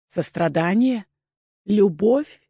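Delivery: understated sneering questions; contemptuous echo of the plea; scornful. A narrator's reading. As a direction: throw it back with a curled lip. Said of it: "скривил губы Рэй".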